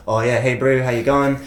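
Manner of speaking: lightly imitated Polynesian Kiwi accent; casual Polynesian bro greeting, New Zealand vowels. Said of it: "then you hear the actual Polynesians".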